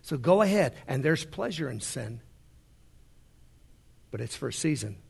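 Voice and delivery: a hint of a sly devil; devil coaxing. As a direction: murmur it like a tempter luring. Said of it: "The devil comes along and says".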